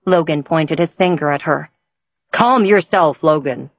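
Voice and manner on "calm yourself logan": mild bellow. Acted. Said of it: "Hugh bellowed".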